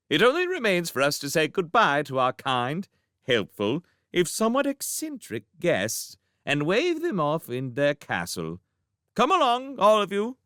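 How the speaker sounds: high, formal royal voice; stately princess. A narrator's reading. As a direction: announce it like a gracious princess.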